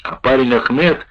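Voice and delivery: ordinary delivery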